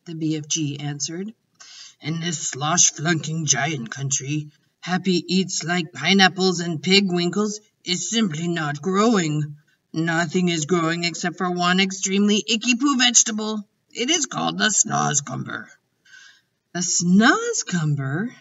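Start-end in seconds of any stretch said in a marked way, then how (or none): 2.0-15.7 a kindly giant explaining, unhurried; BFG. Acted. The giant explaining to Sophie, lightly voiced and earnest. 16.7-18.4 surprised cry. Acted. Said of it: "Sophie cried".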